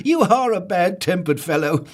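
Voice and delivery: very high, loud chirpy chiding; high, loud merry scolding; jolly Mister Happy. Acted. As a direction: tease him cheerfully. Happy teasing Grumpy.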